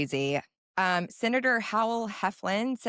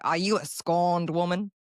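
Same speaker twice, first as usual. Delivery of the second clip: put-on big Southern accent; 3 dB louder than usual. Host imitates the senator questioning her, big Southern accent. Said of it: "he has this big Southern accent".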